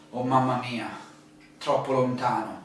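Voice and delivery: mildly dismayed mamma mia; discouraged. Shown as a demonstration. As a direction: let it sink, put off by the distance. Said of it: "to show a big deal of discourage".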